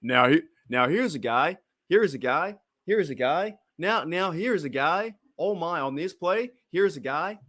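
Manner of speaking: put-on American sportscaster accent, lilting. Shown as a demonstration. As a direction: do an American commentator accent, pitched a bit high. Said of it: "That's my American accent".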